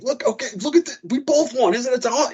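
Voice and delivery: high, gushing mock wife voice; mimicking wife. Husband imitating his wife gushing over their win, high. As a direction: squeal it like an overexcited bettor, pitched high. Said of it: "It's like".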